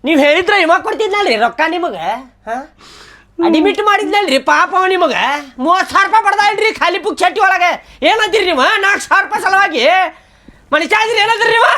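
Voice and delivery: high-pitched, insistent reproach; exasperated scolding. Acted. Friend scolds mother over the hospital bill, exasperated. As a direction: take them to task in disbelief.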